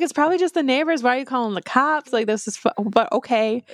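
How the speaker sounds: baffled, pushing back; confused protest. Retold or imitated. Gabe confused while Addie calls the police, protesting.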